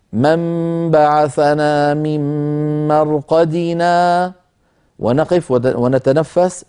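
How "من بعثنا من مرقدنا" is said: slow chanted recitation, stopping fully on مرقدنا; recitation with full stop. Shown as a demonstration. Teacher shows stopping and breathing, in slow chanted recitation. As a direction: chant it slowly and come to a real stop at مرقدنا. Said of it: "أن نقول هكذا".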